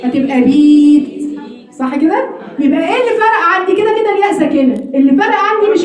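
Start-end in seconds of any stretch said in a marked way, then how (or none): 0.0-1.3 بيت said slowly with a kasra on the ba, like "beet"; kasra under ba. Shown as a demonstration. Teacher showing how a kasra changes بيت, slow. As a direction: say بيت with an i vowel. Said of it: "لو ابدلت الفتحه دي بكسره".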